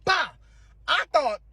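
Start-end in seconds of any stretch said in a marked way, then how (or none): 0.0-0.3 short sharp mouth-made bang; imitated pop sound. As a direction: mimic the pop of a sign hitting floor. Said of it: "it made, like, a pop sound".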